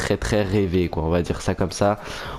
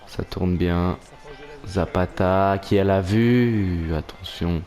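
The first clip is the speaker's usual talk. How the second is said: french sports commentary. Acted. Commentates match highlights live.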